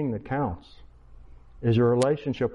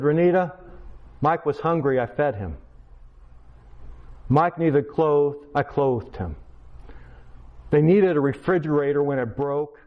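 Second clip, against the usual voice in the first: earnest raised plea; 4 dB louder than usual. Retold or imitated. Teacher pleads to principal.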